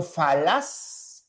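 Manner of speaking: falaz said very slowly, each sound clear; slow careful spelling-out. Shown as a demonstration. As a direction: draw out falaz syllable by syllable. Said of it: "Por ejemplo". (falaz pronunciado muy despacio)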